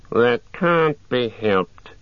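drawn-out orc retort; second orc. A narrator's reading. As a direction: argue back as an orc.

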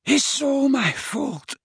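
high, slow tearful wail; anguished, wailing confession; sobbing. A narrator's reading. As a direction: sob out the guilt, drawn out. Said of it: "he sobbed".

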